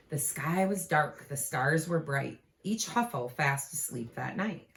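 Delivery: gentle storybook read-aloud; cosy picture-book narration; reading to children. A narrator's reading. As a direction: read it like a bedtime book to little ones. Reads picture book to kids.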